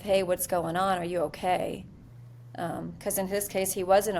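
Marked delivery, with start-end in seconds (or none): 0.0-1.8 gentle check-in. Shown as a demonstration. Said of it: "Start the conversation with".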